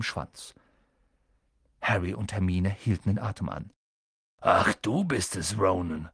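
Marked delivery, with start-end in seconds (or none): 4.4-6.1 relieved. A narrator's reading. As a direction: let the tension drop a little. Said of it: "sagte Hagrid erleichtert". (leicht erleichtert)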